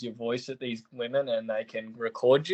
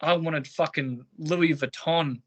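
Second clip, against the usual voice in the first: slow, higher, whiny mock of her demand; mocking spoiled girlfriend; 4 semitones higher, slower than usual. Mocking his ex-girlfriend's birthday complaint, slow and whiny. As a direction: drag it out like a spoiled brat. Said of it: "and she's like".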